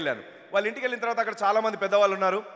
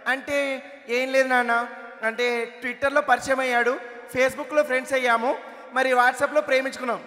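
put-on slow, higher, coy girlish explaining; coy daughter; 3 semitones higher, slower than usual. Daughter sheepishly explaining her online romance to her father, slow and higher. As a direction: draw it out sweetly like a sheepish teen.

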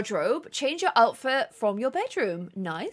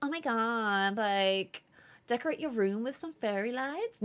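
attempted California drawl, softer; shaky attempt at Californian accent; 3 semitones lower, 6 dB quieter than usual. Shown as a demonstration. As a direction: try a lazy Californian accent. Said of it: "It's like the Californian drawl".

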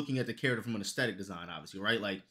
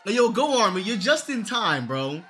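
loud hype greeting; 7 semitones higher, 6 dB louder than usual. Real, not acted. Greeting raider amid excitement.

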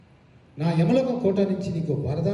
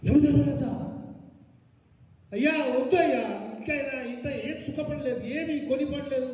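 pleading; 5 semitones higher than usual. Shown as a demonstration. Director shows the wife how to plead with Yama, higher and begging. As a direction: beg Yama to spare the husband. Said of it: "కొంచెం pleading, pleading ఉండాలి".

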